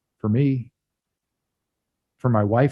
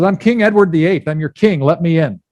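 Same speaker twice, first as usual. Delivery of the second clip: lightly voiced king, a little raised; announcing king; 4 semitones higher, 5 dB louder than usual. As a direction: declare yourself with mild royal authority. King demands entry in story.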